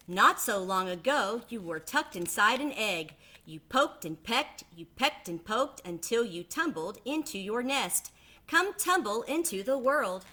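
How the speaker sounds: a mother duck talking her babies out of the nest; coaxing mama duck. Acted. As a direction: reason with the little ones lovingly.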